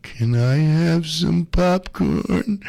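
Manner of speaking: slow, drawn-out meek plea; slow hammed-up plea from a hungry guy watching her eat; pleading ask. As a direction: ask for the popcorn like a begging puppy. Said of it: "sitting here looking at that going".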